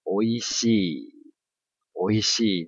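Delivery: おいしい with the long い held; Japanese long vowel. Shown as a demonstration. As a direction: stretch the い in おいしい. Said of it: "是念".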